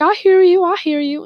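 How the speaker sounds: high, loud mock protest; imitated shouting back. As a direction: mimic a neighbour yelling as he retreats. Neighbour retreats, calling back.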